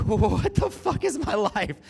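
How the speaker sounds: high, loud, slow sung shriek; a gay fan screams that he's meeting a pop star; starstruck squeal. Retold or imitated. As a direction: belt it out in disbelief.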